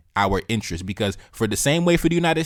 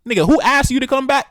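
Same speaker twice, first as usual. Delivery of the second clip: high, loud mocking disbelief; cracking up at the absurdity; incredulous retort; 6 dB louder than usual. Real, not acted. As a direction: scoff at the very idea.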